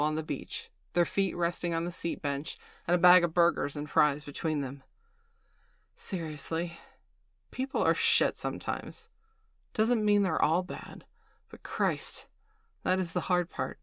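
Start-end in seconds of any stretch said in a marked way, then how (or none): 5.9-13.8 bitter. Acted. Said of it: "Miss Angeli said bitterly".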